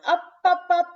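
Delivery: up up climbing high and loud; rising up up. A narrator's reading. Teacher voicing the ball flying up, high and loud. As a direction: let the voice soar with the ball.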